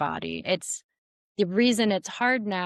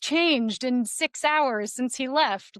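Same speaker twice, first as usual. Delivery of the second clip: exasperated advice; 5 semitones higher than usual. Retold or imitated. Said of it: "I'm like".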